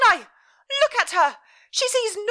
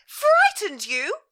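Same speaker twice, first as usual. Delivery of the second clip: even higher, louder, slow and drawn out; building outraged cry; 11 semitones higher, 9 dB louder, slower than usual. Acted. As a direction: stretch each word, seething. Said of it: "her mother cried".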